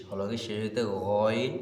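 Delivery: হলকে শেষ হইতে গইন drawn out slowly; slow rule recital. Shown as a demonstration. Teacher slowly recites the makhraj rule to students. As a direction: chant the rule slowly, syllable by syllable. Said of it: "tajweed rule chanted slowly".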